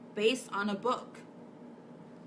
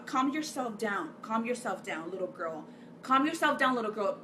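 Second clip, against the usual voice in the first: mock scolding adult. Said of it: "That's what you're telling my little girl".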